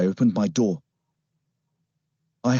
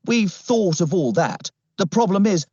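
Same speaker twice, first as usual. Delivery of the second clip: higher-pitched character voice for an officer; put-on policeman voice; 9 semitones higher than usual. Policeman explains the problem to the family, put-on officer voice.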